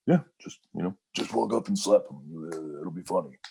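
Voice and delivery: a hint of a grinning trainer coaxing a rookie; imitating Bruce. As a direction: casually egg the rookie on. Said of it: "I'd be like".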